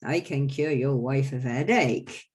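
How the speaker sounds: the quack doctor boasting. Acted. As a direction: brag to the crowd like a travelling quack. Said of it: "So I go".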